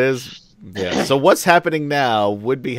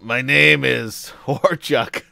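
slow, proud orc introduction; slow mock orc name; 4 semitones higher, 5 dB louder, much slower than usual. Player giving his orc name to the guard, slow. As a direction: drawl the name out like a brute. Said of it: "in character".

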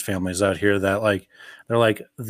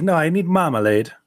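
lightly voiced demanding kid, pitched higher; a touch of a child insisting; insistent child; 6 semitones higher than usual. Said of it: "how many kids after the movie".

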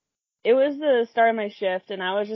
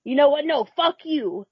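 raised, hammed-up storming-off rant; mock angry customer; 5 semitones higher than usual. Customer storming off from the register, mock fury. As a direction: act out a furious exit. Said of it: "he's just like".

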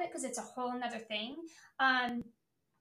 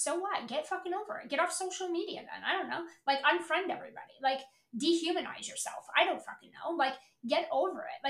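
higher, heated ranting; exasperated rant; 5 semitones higher than usual. Real, not acted. Host venting at complainers about DMs, exasperated and heated. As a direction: throw up your hands in disbelief.

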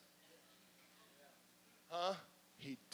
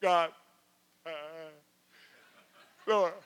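mock panicked bargaining prayer; hammed-up desperate prayer; 4 semitones lower than usual. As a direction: pray it like someone in a jam. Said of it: "ever prayed them prayers".

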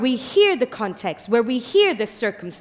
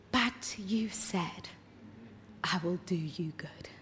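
hushed, slow, breathy whisper of a plea; softly whispered, clinging to a promise; whispered prayer; 5 semitones lower, 16 dB quieter than usual. Retold or imitated. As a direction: whisper it like a desperate secret prayer to God. Jacob's desperate whispered prayer.

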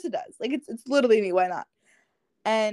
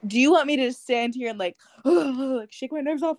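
sarcastic retort; 3 semitones higher, 3 dB louder than usual. Retold or imitated. Teen retelling mocking boy's advice.

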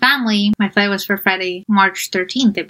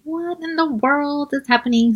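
incredulous; 6 semitones higher, 3 dB quieter than usual. Retold or imitated. Disbelief at Hawaii rental rules.

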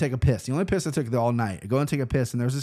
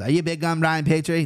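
put-on amateur English accent, slightly raised pitch; 4 semitones higher, 3 dB louder than usual. English fan checking who he is, imitated English accent. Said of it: "That's my English accent".

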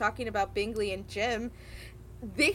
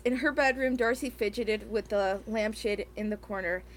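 reading aloud; 3 semitones lower than usual. Acted. Host reading the novel excerpt to co-hosts. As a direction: read the passage, a touch flat.

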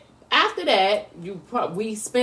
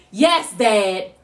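with attitude; 2 semitones lower, 3 dB louder than usual. Retold or imitated. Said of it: "With attitude".

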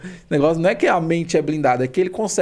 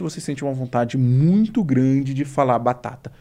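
hypnotic induction; 3 semitones lower, slower than usual. Acted. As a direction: lull them down into trance. Hypnotic suggestion.

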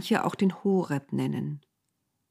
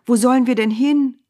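higher and louder, fear breaking through; frightened cry; 7 semitones higher, 7 dB louder than usual. A narrator's reading. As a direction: cry out in alarm. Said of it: "rief Mose".

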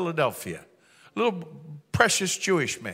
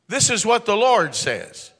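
slow, ringing pronouncement, louder and higher; bold prophetic declaration; 4 semitones higher, 5 dB louder, slower than usual. Retold or imitated. Preacher prophesying over his friend, slow and booming. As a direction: proclaim it like a prophet on the spot.

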